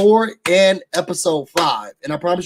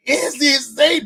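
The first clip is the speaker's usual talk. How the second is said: alarmed; 8 semitones higher than usual. Retold or imitated. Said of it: "And I was like".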